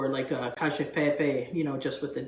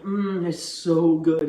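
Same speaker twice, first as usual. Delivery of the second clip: slow, louder savoring "mm"; 5 dB louder, much slower than usual. Retold or imitated. Telling viewers how this dish tastes every time, savoring. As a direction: relish it slowly, drawn out.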